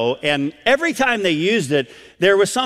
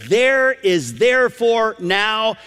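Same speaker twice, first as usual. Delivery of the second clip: slow, raised, deliberate verse; higher and drawn-out; solemn proclamation; 4 semitones higher, slower than usual. Acted. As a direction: proclaim each word as absolute. God's verse proclaimed as absolute.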